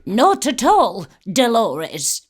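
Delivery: loud, emphatic film-line imitation; hammed-up indignant professor, lightly voiced; mock stern retort. Quotes film line ahead of clip.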